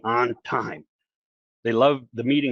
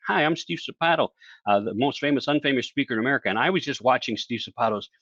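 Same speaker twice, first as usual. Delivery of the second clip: enthusiastic fan testimonial. Pretend.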